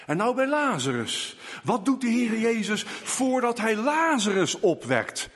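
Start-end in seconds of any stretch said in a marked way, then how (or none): none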